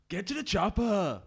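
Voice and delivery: halting Arnold Schwarzenegger impression, laughing; slow, giggly Arnie voice; clumsy practiced accent. Shown as a demonstration. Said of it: "let me practice".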